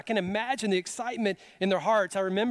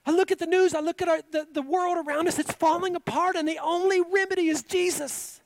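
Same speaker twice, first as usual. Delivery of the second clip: loud, high preacher's cry; fervent pulpit preaching; 12 semitones higher, 6 dB louder than usual. Acted. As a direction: preach it out with full force. Preaching at full force.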